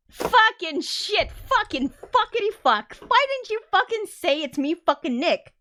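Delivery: high, loud string of curses; playful cursing fit at a friend; mock frustration. Real, not acted. Scolding Nick for not saying it was him, mock frustrated. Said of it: "when I get, like, frustrated".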